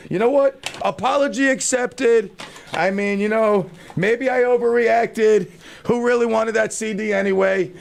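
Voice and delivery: hammed-up sarcastic apology acceptance; mock forgiveness. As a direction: pretend to graciously forgive the slight.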